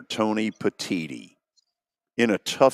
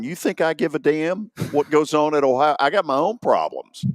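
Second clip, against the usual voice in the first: irritated coach; 5 semitones higher than usual. Retold or imitated. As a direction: snap back like a fed-up coach. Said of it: "coach at Northwestern's going".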